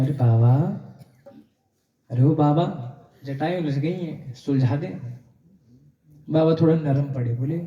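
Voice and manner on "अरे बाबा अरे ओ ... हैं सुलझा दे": sweet coaxing. Acted. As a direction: coax the old man lovingly. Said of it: "बड़े प्यार से पूछा".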